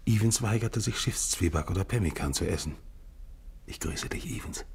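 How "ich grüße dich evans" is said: soft hushed farewell; whisper. Acted. Narrator greeting dead Evans, whispering. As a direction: breathe it to the dead man.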